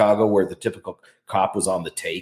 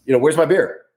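brash American; 4 semitones higher, 4 dB louder than usual. Retold or imitated. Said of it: "I sound American".

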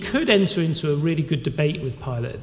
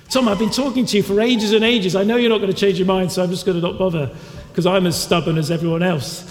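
fast, higher, louder fed-up voice; exasperated arguer; 3 semitones higher, 4 dB louder, much faster than usual. Retold or imitated. A churchgoer giving up on stubborn Tom, fast and exasperated. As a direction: brush him off, tired of arguing. Preacher acts out giving up arguing.

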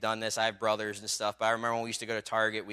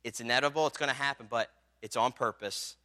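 reassuring voice of God; 4 dB quieter than usual. Acted. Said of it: "God says".

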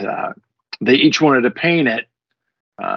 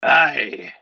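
pirate voice; 4 dB quieter than usual. Pretend. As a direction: spin a yarn like an old sea dog. Talk Like a Pirate Day joke.

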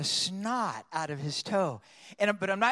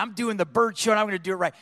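louder, determined declaration; boldness; 3 semitones higher, 6 dB louder, faster than usual. Retold or imitated. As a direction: announce it with bold resolve. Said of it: "this boldness came on me".

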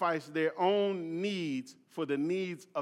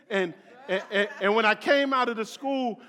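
laughing; 3 semitones higher, 6 dB louder, faster than usual. Real, not acted. Laughs telling his story.

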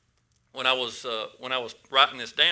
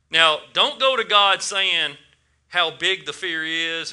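emphatic preaching; 2 semitones higher, 5 dB louder, slower than usual. Real, not acted. Preacher stresses warning.

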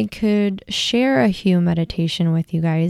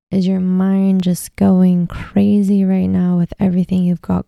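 measured guiding voice with long pauses; guided meditation. Acted. Host leading listeners to close their eyes, guided meditation. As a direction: ease listeners inward, phrase by phrase.

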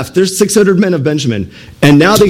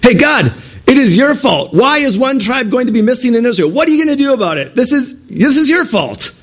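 high accusing outburst at God; blaming God; 8 semitones higher than usual. Acted. Tribes blaming God for the lost tribe, high accusing. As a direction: shake a finger at heaven, much higher. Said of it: "They're blaming God".

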